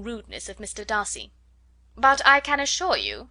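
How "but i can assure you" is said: louder, higher indignant insistence; mother bristling at the man who slighted her daughter; indignant Mrs Bennet. A narrator's reading. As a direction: assure him, bristling.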